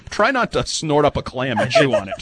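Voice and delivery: laughter running through the words; amused, giggling delivery; laughing. Real, not acted. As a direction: tease him through a laugh. Teasing cohost, laughing.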